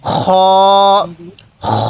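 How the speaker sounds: long scraped back-of-throat start on খ; throaty খ. Shown as a demonstration. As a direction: say খ from where you gargle, a rasped "kh". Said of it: "এরকমভাবে উচ্চারণ করব".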